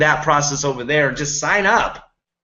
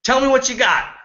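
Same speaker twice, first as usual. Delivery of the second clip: amused customer; 6 semitones higher than usual. Retold or imitated. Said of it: "And he said".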